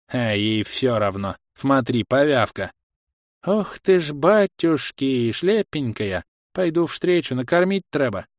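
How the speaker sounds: put-on high, sing-song old village granny cooing; an old woman clucking over a stranger; cooing granny spotting a wanderer; fussy old granny. Grandma voice in fairy tale.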